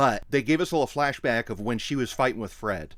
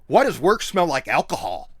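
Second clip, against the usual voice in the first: louder retort with attitude; mock attitude; 2 semitones higher, 5 dB louder than usual. Wife calls out her husband's lie, mock sassy attitude. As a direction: imitate the wife's sassy comeback, punched louder. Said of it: "With such attitude".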